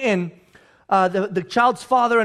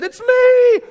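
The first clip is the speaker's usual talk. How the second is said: high, loud, drawn-out announcement; hammed-up singing-out reveal; mock reveal; 14 semitones higher, 8 dB louder than usual. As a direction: holler it with a stretched last word. Mock last-minute reveal on cross.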